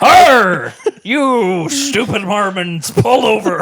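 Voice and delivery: loud "Arr!" then slow mock pirate threat; pirate shout. Pirate stops a pioneers' wagon, loud then slow. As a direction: growl a playful pirate holdup.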